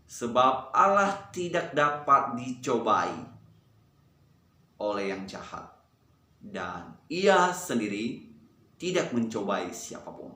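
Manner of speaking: slow phrases with long pauses; unhurried, spaced-out group recitation. Shown as a demonstration. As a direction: recite it slowly, leaving gaps between phrases. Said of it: "kita ulang pelan-pelan".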